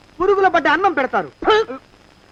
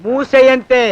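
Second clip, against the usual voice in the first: angry scolding; 5 dB louder than usual. Acted. Servant berates boss.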